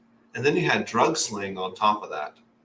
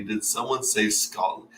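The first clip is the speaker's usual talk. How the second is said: Scottish excitement; 5 semitones higher than usual. Retold or imitated. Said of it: "a singer".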